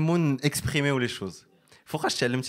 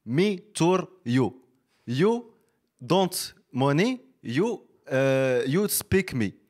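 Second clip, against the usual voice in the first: broken English guide; much slower than usual. Retold or imitated. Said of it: "كيقول له".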